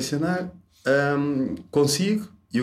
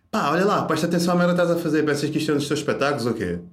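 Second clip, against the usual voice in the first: raised, fast scolding rant; mock angry instructor; 3 semitones higher than usual. Instructor loses it at the student driver, fast angry scolding. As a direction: bark at the student like a fed-up driving instructor. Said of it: "o gajo passava-se".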